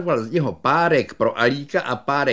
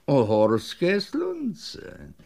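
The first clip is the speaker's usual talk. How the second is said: repeated offer; 3 semitones higher, much slower than usual. Acted. Shopkeeper repeating the sunlamp offer, slow falling. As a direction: let it settle as a confirmation.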